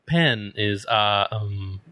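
halting, hesitant delivery full of ums; badly faked impression, stammering through the line; Jeff Goldblum. Riffing on the writer character, terrible halting impression. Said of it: "that was a terrible Jeff Goldblum".

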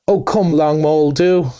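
lightly voiced Rat, breezy and cheerful. A narrator's reading. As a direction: brush it off brightly while walking on. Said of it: "replied the rat cheerfully".

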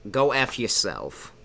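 put-on slow, mild Brooklyn accent; New Yorker accent. Uncomfortable character ending his joke, light New York accent. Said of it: "what the heck are you doing with your voice".

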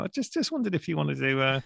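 a hint of Frank Skinner inviting a friend to a gig; light Frank Skinner on the phone; Frank Skinner impression. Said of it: "rung people up as Frank Skinner".

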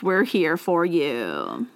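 slow, drawn-out radio host. Pretend. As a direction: croon it like a late-night DJ. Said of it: "I was trying to sound like a radio D J".

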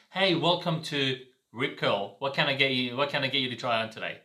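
welcoming shop assistant greeting; upselling cashier. Shown as a demonstration. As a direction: greet the customer openly and warmly. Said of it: "That's what you want to do with intention".

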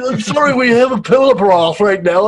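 loud, high posh British put-on voice; posh British accent. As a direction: play a fussy upper-class Brit. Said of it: "this is so British".

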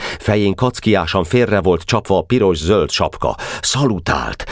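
ordinary delivery, nothing marked

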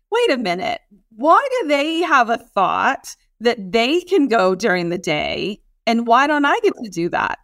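indignant protest, words leaned on; frustrated indignation. Acted. Frustrated with the other person, indignant. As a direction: protest as if it's unfair. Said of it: "we're frustrated with the other person".

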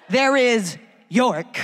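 there is York, slowed right down and spelled out; slow pointed stress on "there is York"; stressed punchline. Real, not acted. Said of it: "slow emphatic punchline".

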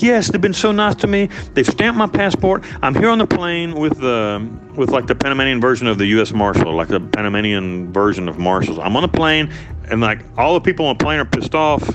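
sketch her relieved voice on the phone; imitating wife.

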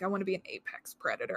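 soft, fast whispery quote; mock little whisper speak. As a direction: murmur it quickly, imitating the actress. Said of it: "she kind of does that little whisper speak".

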